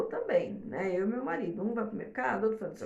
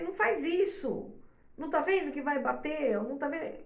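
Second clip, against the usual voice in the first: higher-pitched retold telling-off; gruff scolding; 6 semitones higher than usual. Wife retelling her scolding of her husband, gruff and reproachful. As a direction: retell yourself scolding with some edge. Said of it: "ele escutou a entonação de voz que eu usei".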